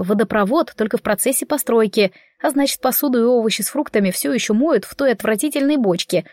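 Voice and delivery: ordinary delivery, nothing marked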